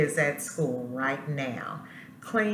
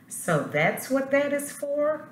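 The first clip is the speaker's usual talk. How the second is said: curious school voice; 10 semitones higher than usual. Acted. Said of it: "thought the school".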